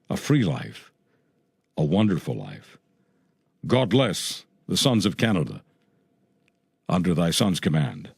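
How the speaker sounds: solemn tribute. Real, not acted. Radio host blesses the fallen sons of Canada, solemn. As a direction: close the tribute gravely, pausing between phrases.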